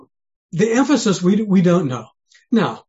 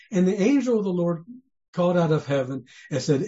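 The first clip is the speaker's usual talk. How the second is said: almost monotone. Shown as a demonstration. Preacher showing how we read Abraham's story, almost monotone. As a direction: read scripture evenly. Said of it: "almost monotone".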